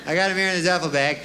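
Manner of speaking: lightly formal, dutiful report; mock devil's servant. Killer reports back to the devil, mildly mock-solemn. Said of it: "you go back to the devil".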